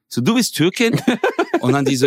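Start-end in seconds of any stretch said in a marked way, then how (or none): 0.2-1.1 higher, disbelieving question that turns into a laugh; higher, amused astonishment; laughing surprise. Retold or imitated. Shocked she is Turkish.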